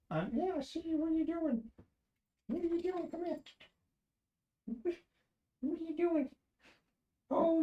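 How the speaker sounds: very high, soft coo at the cat. Real, not acted. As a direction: sweet-talk the cat in a tiny voice. Talking to cat in baby voice.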